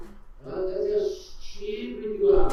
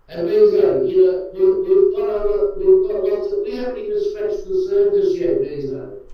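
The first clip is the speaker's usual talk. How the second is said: loud rant; 9 dB louder than usual. Real, not acted.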